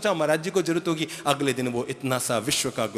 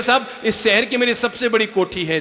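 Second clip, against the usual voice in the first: boasting rich man; 6 semitones higher, 3 dB louder than usual. Retold or imitated. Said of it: "तो कहने लगे".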